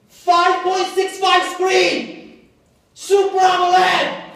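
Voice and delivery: very high, loud, slow hype; excited sales pitch. Retold or imitated. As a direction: announce the screen like a TV ad. Pitching phone features to dad.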